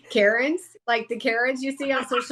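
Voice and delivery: giggling through the word Karens; can't hold back the laugh. Real, not acted. Healer teasing about Karens, giggling. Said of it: "I'm gonna say it".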